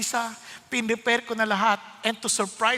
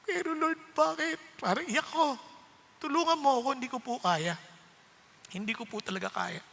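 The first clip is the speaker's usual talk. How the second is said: tearful prayer; 2 semitones higher, 3 dB quieter than usual. Retold or imitated. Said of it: "Iyak talaga ako".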